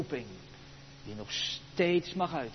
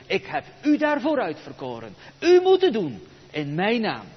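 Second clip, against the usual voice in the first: God commanding; 2 semitones higher, 5 dB louder than usual. Acted. Preacher voicing God sending Moses to Pharaoh, loud call. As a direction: proclaim the commission with rising force. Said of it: "De Heere gaat hem zijn opdracht geven".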